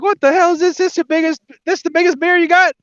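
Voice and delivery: high-pitched, hammed-up indignation; incredulous Texan. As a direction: complain as a bragging Texan tourist. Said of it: "and he's like".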